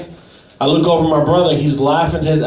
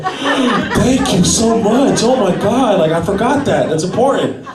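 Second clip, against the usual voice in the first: slow, mock-grateful and higher; sarcastic thanks; 4 semitones higher, slower than usual. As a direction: drip fake gratitude at the watch. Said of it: "I'm like".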